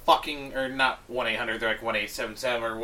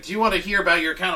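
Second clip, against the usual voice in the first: mock robot voice; 4 semitones higher, much faster than usual. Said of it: "it's like".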